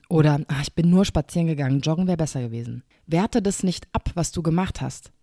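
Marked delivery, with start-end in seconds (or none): 0.5-2.8 rattled off fast, brushing it aside; mock a woman downplaying her walk; dismissive self-talk. Host imitating a listener belittling herself, fast and dismissive.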